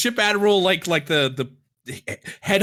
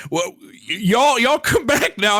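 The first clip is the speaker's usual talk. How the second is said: louder, higher hammed-up Southern farewell; goofy Southern; 7 semitones higher, 4 dB louder than usual. The father bids the visitors farewell in a goofy Southern accent. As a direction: ham up a folksy Southern goodbye. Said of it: "I'm Southern goofy at this point".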